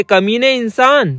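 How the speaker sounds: slow, drawn-out half-hearted shout; lightly narrated cry of outrage, slow; mild mock yell. A narrator's reading. Wife yelling at her husband in bed, a slow mild mock yell. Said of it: "चिल्लाते हुए कहती है".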